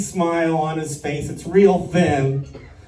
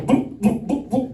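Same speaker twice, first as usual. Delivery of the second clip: high little boops; frog sounds; 7 semitones higher, 3 dB quieter than usual. Shown as a demonstration. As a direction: imitate frogs croaking softly. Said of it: "That's about how it sounds".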